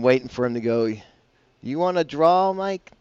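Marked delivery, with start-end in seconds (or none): 1.6-2.9 a hammed-up Russian accent, pitched higher; mock Russian poker villain, Russian accent teasing; John Malkovich Russian accent. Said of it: "He did the worst Russian accent".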